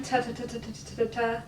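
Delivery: rapid ta ta ta repeats; plosive drill. Shown as a demonstration. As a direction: fire off ta as fast as possible. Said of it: "as fast as you can".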